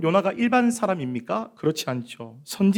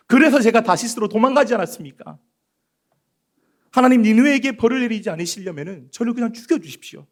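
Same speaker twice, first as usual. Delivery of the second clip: higher, louder complaining prophet; angry Jonah; 4 semitones higher, 3 dB louder than usual. Acted. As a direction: Jonah railing at God, pitch up. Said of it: "막 화를 내는 겁니다".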